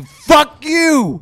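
mock yell. Real, not acted. Player yelling at a friend.

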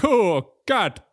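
loud, high imitation cat call; weird European meow. Mocking how Europeans voice a cat, weird high meow. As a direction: stretch it out like an odd foreign meow. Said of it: "some weird fucking sound that makes no sense".

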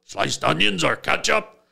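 lightly voiced caveman asking; a hint of a hopeful brute; caveman talk. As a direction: caveman Mongo asking for condiments. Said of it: "he still talks like this".

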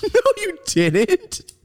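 very high, drawn-out contradiction; mocked mother's denial. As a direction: stretch it out as a mocking denial.

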